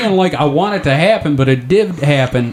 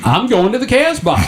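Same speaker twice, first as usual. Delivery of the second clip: swooning; 11 semitones higher than usual. Pretend. Swooning reply in high voice.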